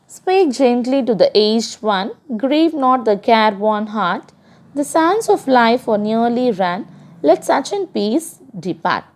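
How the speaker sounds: measured reading of a verse for the class; poem recitation. Acted. Teacher reciting a poem to her class, measured. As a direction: read the stanza out like a teacher reciting.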